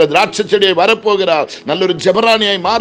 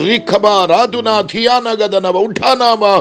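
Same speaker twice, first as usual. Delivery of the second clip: speaking in tongues; slower than usual. Real, not acted. Preacher breaks into tongues.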